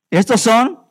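loud, rising call for the crowd to finish; leading the congregation. Real, not acted. Preacher calls out to the congregation, loud and rising. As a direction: call it out and leave it hanging for them. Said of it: "diga conmigo".

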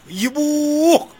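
stretched out, slow and high; mocking drawl. Father mocking the rich neighbour's luck, slow sarcastic drawl. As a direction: drag the word out sarcastically.

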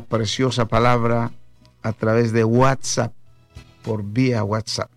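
ordinary talk, nothing marked

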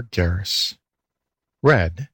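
ordinary delivery, nothing marked

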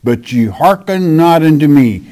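measured, solemn Bible reading; scripture reading. Acted. Preacher reads Jeremiah to his congregation, solemn scripture reading. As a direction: read the verse out to the congregation.

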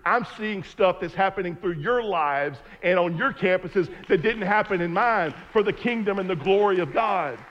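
building, fervent sermon delivery; emphatic pulpit cadence, climbing in pitch; impassioned preaching. Real, not acted. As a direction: preach it with rising conviction. Preacher builds praise of students.

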